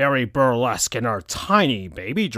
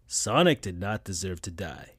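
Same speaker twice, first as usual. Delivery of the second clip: Knuckles, sad; 5 semitones lower, 6 dB quieter than usual. A narrator's reading. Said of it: "said Knuckles".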